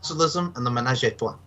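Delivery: put-on playful French accent; Jean Girard's French accent. Contestant showing the host how to sound French, French accent. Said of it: "channel your inner Jean Girard".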